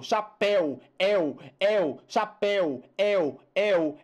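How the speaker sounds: "el" isolated with open e, falling each time; showing the sound. Shown as a demonstration. Teacher pointing out the open diphthong, "el" isolated and repeated. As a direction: repeat "Chapéu", then just its open ending "el". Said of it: "olha o som".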